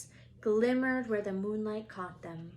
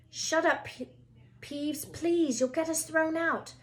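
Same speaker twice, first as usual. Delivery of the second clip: put-on higher, urgent pleading boy; 8 semitones higher than usual. A narrator's reading. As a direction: beg the poltergeist to hush. Boys begging Peeves.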